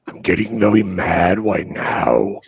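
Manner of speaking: loud, rising anger; getting mad. Acted. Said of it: "We're pissing him off now".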